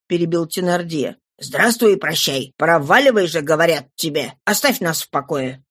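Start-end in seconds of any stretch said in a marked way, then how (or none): 1.4-5.6 a lower, rough gang-boss voice; gruff Thénardier, lower. Acted. Thénardier cuts Éponine off, lower and dismissive. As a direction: brush her off in a lower voice.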